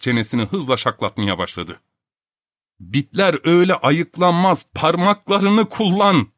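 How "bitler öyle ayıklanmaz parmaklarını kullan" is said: mild mock shout, higher. Filip Filipovich scolding the man picking lice, mild shout. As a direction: snap out the order, dragging the end. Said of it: "diye bağırdı Filip Filipoviç".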